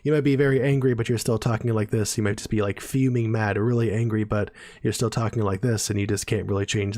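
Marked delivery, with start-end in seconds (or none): 0.9-2.2 flat monotone, no pitch movement. Shown as a demonstration. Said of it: "monotone all the time". 4.2-5.9 monotone voice. Shown as a demonstration. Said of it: "monotone all the time".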